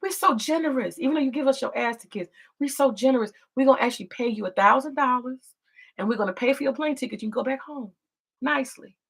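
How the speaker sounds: mock generous America. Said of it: "Even America said".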